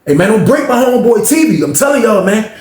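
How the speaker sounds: heated imitation of a protective friend; retold warning. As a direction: warn them off loudly. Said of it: "He was like".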